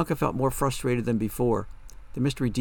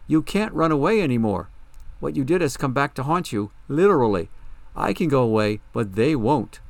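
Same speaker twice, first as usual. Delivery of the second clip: loud, forceful warning; mildly angry, emphatic telling-off; stern confrontation; 3 semitones higher, 4 dB louder than usual. Acted. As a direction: confront someone trying to run away. Bianca confronts fleeing Darla.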